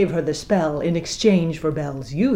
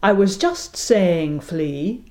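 slow, sugary and soft; captain turns syrupy; soft syrup tone; slower than usual. Acted. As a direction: coax him sweetly. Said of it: "tone returned to soft syrup".

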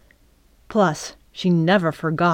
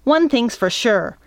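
firm, higher-pitched declaration; slightly raised, decisive voice; 5 semitones higher than usual. A narrator's reading. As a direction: cut in to end the argument. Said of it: "Midge said loudly".

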